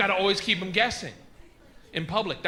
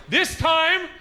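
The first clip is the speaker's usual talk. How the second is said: mild shout; 9 semitones higher, 6 dB louder than usual. Retold or imitated. Punchline shouted at wife.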